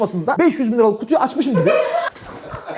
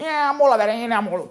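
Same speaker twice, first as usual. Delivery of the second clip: auntie voice; 4 dB quieter than usual. Retold or imitated. Auntie voice sitting down.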